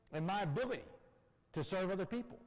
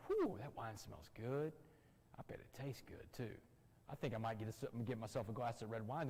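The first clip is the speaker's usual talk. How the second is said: tempted inner voice; 6 semitones lower, 6 dB quieter than usual. Retold or imitated. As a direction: let the craving whisper to you.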